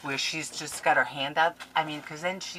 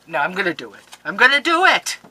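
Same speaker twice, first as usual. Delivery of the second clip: rally yourself into a triumphant cry; mock resolve; 3 semitones higher, 12 dB louder than usual. Crafter hams up resolve to part with her paper.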